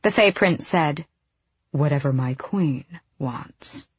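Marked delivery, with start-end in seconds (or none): 1.7-3.9 amused. Acted. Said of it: "With a flicker of amusement".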